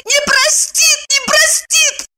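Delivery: rising high wail, slow and tearful; keen it hysterically, climbing; hysterical lament. A narrator's reading. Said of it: "истерически запричитала".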